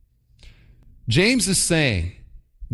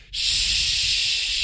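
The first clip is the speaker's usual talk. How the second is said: soft, voiceless muttered shoot; quietly breathed shoot; muttered minced oath; 4 dB quieter than usual. Shown as a demonstration. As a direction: drop it under the breath like a near-curse. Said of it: "how about this".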